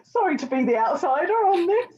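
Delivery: said high through a laugh; giggling sorry as the odd one out; laughing apology. Real, not acted.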